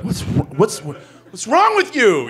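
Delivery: mock dad yelping up high in disbelief; rising squeak of disbelief at the kid; exasperated parent. Dad glaring at his six-year-old, high disbelieving squeak. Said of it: "I would literally be like".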